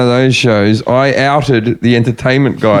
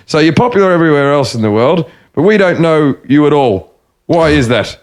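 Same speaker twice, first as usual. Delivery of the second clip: lightly put-on broad Australian interviewer; Australian accent. Radio host questioning visiting comic, imitated Australian accent. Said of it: "I'll do the Australian accent".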